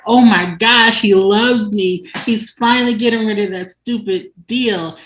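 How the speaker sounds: lightly acted lovestruck gushing; excited retelling. Tabitha gushing that he loves her, excited.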